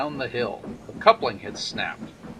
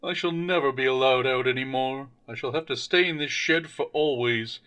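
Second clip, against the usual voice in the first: self-pitying engine. Acted. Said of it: "James began to cry".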